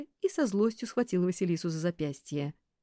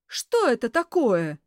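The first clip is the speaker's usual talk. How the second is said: slow, louder demand; furious demand; 5 semitones higher, 8 dB louder, slower than usual. A narrator's reading. Boss confronts secretary, slow furious. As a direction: drag out the demand.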